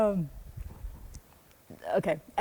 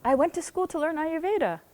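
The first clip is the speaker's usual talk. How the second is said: stammering; 8 semitones higher than usual. Retold or imitated. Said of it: "I stammered".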